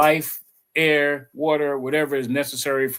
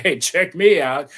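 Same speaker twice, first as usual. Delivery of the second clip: mock bragging; 3 semitones higher, 5 dB louder than usual. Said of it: "Jesus was bragging".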